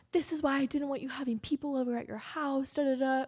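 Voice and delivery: high-pitched mock scolding; imitated angry rant. Boyfriend complaining about people over at the house, mock-mad. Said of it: "He's so mad".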